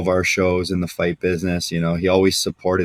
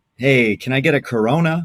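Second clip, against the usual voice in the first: put-on super laid-back voice, much higher pitch; 6 semitones higher than usual. Describing a billionaire guest at a private dinner, imitating a laid-back guy. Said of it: "Super laid back guy".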